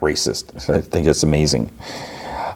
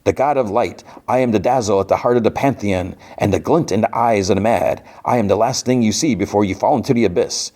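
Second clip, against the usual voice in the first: grand villain proclamation in a raised voice; theatrical imitated reveal of a godly villain; Mister Ring-a-Ding; 4 semitones higher than usual. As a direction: proclaim it as a hammed-up cartoon god. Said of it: "Ring-a-Ding's like".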